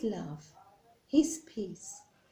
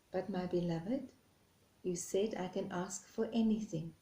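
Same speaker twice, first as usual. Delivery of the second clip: gentle God; 2 semitones lower, 7 dB quieter than usual. Acted. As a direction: answer the reed softly and lovingly. God answers reed softly.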